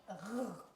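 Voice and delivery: R as a sustained French throat sound, not the letter name; consonant sound. Shown as a demonstration. Teacher sounding R while writing it, R held long. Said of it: "J'ai le son R".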